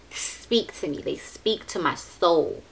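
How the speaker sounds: half-whispered, slow and dreamy; soft gush. Real, not acted. Vlogger swooning over palette colors, softly and slowly. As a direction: breathe it out softly, slowly, awed.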